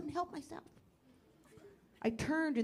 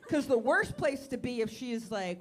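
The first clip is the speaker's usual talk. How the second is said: ordinary delivery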